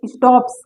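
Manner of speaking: स्टॉप्स with a crisp unvoiced s at the end; स्टॉप्स ending in a clean s; demo s sound. Shown as a demonstration. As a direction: end स्टॉप्स on a sharp hissed s. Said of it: "सा आ रहा है ना".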